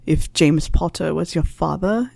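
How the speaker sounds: a lightly voiced wry old teacher, unhurried; dry Snape voice.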